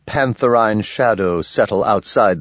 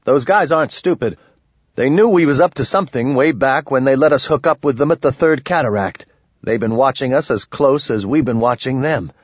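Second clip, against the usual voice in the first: slightly raised, brisk character voice; lightly voiced Willow; 4 semitones higher than usual. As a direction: lightly voice a man arguing his point.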